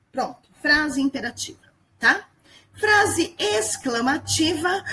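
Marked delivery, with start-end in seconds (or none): 2.7-4.8 drawn-out exclaiming announcement; slow, emphatic. Shown as a demonstration. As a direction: stretch it out with feeling. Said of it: "é aquela que faz".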